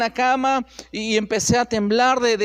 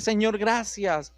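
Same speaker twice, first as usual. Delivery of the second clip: tearful prayer; 4 semitones lower, 4 dB quieter than usual. Retold or imitated. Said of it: "empecé a llorar y le dije".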